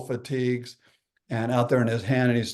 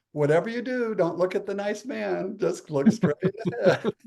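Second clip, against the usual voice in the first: mock warning; 6 semitones higher than usual. Mock warning to daughter driving out.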